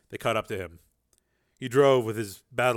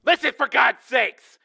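much higher, slow, loud desperate cry; exasperated plea; 14 semitones higher, 9 dB louder than usual. A narrator's reading. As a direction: plead in frustration. Tracy voiced on phone.

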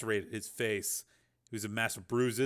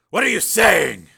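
loud, high alarmed question; forceful, incredulous outburst; disbelieving demand; 9 semitones higher, 15 dB louder than usual. A narrator's reading. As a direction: demand she explain herself. Father refuses shocking news.

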